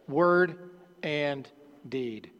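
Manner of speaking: "Word and" held up, then a pause before a dropped "deed"; word and deed stressed. Real, not acted. Pastor pointing the church to the key phrase, slowly stressed. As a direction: set "deed" apart after a beat and let it fall. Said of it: "I want you to notice that".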